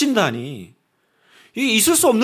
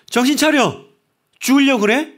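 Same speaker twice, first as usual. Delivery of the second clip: high, loud rebuke to someone in danger; sharp cry of alarm and reproach; scolding shout; 7 semitones higher, 3 dB louder than usual. Retold or imitated. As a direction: yell to snap someone out of danger. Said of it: "꾸짖고 나무라는 표현이에요".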